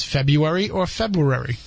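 "February" first as Feb-you-ary, then as Feb-roo-ary; two pronunciations of February. Shown as a demonstration. Co-host reading a listener's question, two pronunciations contrasted.

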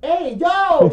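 loud, high-pitched "yo"; high, indignant holler; calling out sharply. Retold or imitated. Calling girlfriend out for staring.

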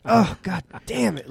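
acted frustration. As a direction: play a frustrated man cursing his luck. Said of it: "he's so fucking frustrated".

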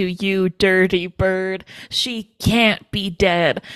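slow, drawn-out mock accusation; upset accusation. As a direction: imitate her upset, weighing each word slowly. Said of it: "She looks very upset".

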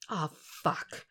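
whispered curse; soft whispered swearing; under his breath. Acted.

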